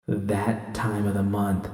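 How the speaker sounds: quietly stunned realization; stunned echo. Acted. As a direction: let the words sink in, slow and hushed. Stunned realization, echoing V's words.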